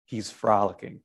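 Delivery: pause, then a slow, low He's frolicking; slow, for effect. Shown as a demonstration. Preacher to congregation, slow pause before He's frolicking. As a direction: let He's frolicking land slowly after a pause. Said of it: "I'm gonna say it slowly to pause for effect".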